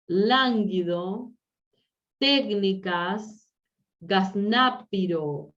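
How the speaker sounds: slow dictation, stress on the first syllable of "Lánguido" and "técnicas"; teacher slowly sounding out esdrújulas; stressed syllable shown. Shown as a demonstration. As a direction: draw out "gaznápiro" with the weight on "ná". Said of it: "Saben lo que es gazna".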